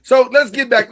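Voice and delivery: loud, high sassy lady voice; Cleveland lady voice. Acted. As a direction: bark it like a chatty grumbling charwoman. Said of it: "Why'd you sound like the Cleveland lady on Family Guy?".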